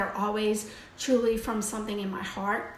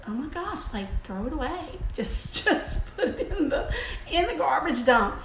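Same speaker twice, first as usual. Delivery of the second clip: laughing mock dismissal; 6 semitones higher than usual. Imitating herself at the TV show, high and laughing. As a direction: toss it off through laughter, pitched up. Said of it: "I would have just said".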